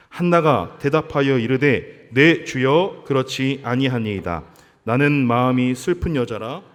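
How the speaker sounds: slow, weighty Bible reading; scripture reading. Acted. Preacher reading the verse aloud to the congregation, solemn and slow.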